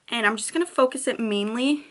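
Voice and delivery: talking while lining lips; while putting on lipstick. Real, not acted. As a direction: speak through lip liner application. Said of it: "it's really hard to talk and do lip liner".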